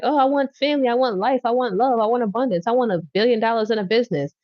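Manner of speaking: high, eager voice of someone begging for everything; pleading wish list. Retold or imitated. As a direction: list your wishes up high like a kid asking God.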